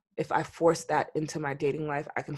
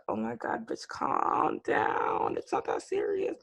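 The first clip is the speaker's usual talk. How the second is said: self-soothing inner voice; 6 semitones higher, slower than usual. Retold or imitated. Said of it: "I literally be sitting there like".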